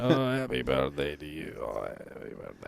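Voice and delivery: low, slurred Scottish accent singing; drunk Scottish accent. Shown as a demonstration. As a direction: sing it like a drunk Scotsman. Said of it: "You have to be drunk".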